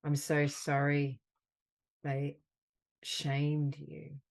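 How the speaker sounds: slow, gentle words of comfort, pausing between them; tender affirmation. Acted. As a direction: soothe a hurt friend, unhurried.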